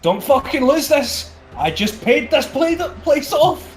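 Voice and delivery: high, loud, heated shout; yelling. Acted. Player yells at teammate in the grapple, urgent shout. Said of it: "I basically yell".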